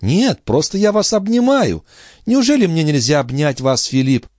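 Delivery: put-on young sister making light of her illness; sister's voice. A narrator's reading.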